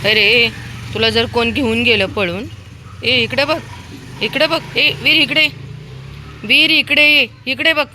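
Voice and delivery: loud, high calls for attention; scolding. Real, not acted. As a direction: scold a runaway and demand they look at you. Scolding Veer who ran to road.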